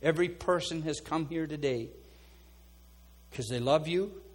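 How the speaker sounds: earnest pastoral prayer over the room; fervent prayer. Acted. Pastor praying over his congregation, fervent prayer. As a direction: pray it out over the people, rising and falling.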